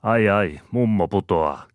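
high, loud cry of warning; alarmed exclamation. A narrator's reading. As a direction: cry out as someone is falling. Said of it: "Lyygia huudahtaa". (hätääntyneesti huudahtaen)

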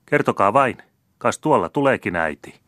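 high, loud defiant taunt; defiant reply. A narrator's reading. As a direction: dare him to go tell, cheekily. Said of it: "vastasi tyttö uhkamielisesti".

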